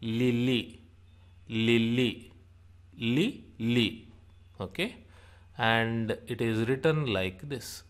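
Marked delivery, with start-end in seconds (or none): 0.0-4.1 "lily" in two even, careful beats, li-lee; demonstrated pronunciation. Shown as a demonstration. Teacher shows li as in lily, careful "lily". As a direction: sound out "lily" syllable by syllable. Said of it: "like L I in lily".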